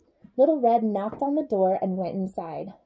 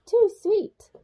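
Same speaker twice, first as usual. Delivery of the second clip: put-on high, louder girlish complaint; Goldilocks complaining; 10 semitones higher, 4 dB louder than usual. Goldilocks complaining about the porridge, high and whiny. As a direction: pull a face and whine it.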